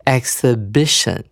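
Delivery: exhibition as ek-suh-BI-shun, BI punched; stress on BI. Shown as a demonstration. Teacher models word stress for students, third syllable stressed. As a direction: hit the bi in exhibition. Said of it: "重音在B I这个音节上面".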